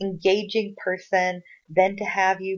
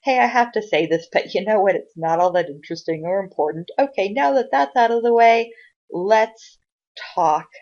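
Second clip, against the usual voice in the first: louder, breezy get-it-over-with tone; brushing it aside; 3 semitones higher, 5 dB louder than usual. Retold or imitated. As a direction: wave off the dull bit and push on. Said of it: "talk maybe a little faster even and get through".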